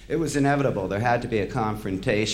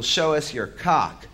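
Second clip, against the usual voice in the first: screamed heckle; 4 semitones higher, slower than usual. Retold or imitated. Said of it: "screamed out".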